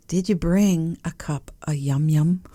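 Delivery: playful rising sing-song on yum yum. Shown as a demonstration. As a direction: lilt up on yum yum like a treat. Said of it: "You gotta say it like that".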